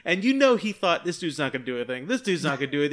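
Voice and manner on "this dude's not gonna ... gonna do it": put-on drunk attitude. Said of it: "that kind of, like, drunk attitude".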